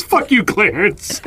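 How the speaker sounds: stretched-out comic holler; retold yelling. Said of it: "some other guy starts yelling at him".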